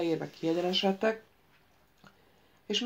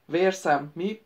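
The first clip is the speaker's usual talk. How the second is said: raging; 4 dB louder, slower than usual. Acted. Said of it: "dühöngött Ikvit".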